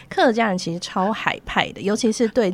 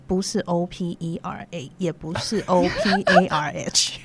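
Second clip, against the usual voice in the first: spelling it out; slower than usual. Shown as a demonstration. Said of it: "你的Oprah怎么拼".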